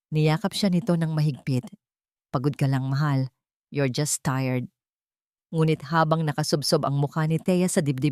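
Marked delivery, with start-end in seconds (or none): 2.3-4.7 calm her down, gently; soothing husband. Acted.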